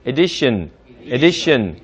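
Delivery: "addition" with a weak, light first vowel; light unstressed a. Shown as a demonstration. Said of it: "약간 약한 애처럼 발음해".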